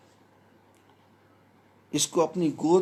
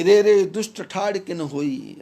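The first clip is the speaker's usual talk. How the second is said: louder retold challenge to the demon; challenging call; 6 dB louder than usual. Jatayu challenging Ravana as he flees, mock-loud call. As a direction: call out the challenge like a bold bird warrior. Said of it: "Jatayu ने रावण को ललकारा".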